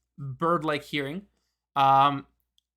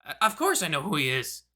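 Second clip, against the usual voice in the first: raspy voice. Acted. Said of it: "the voice kind of raspy again".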